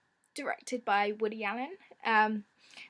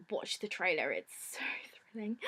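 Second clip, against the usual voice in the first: whispering; 3 semitones lower than usual. Real, not acted. Hushed teaser for thriller.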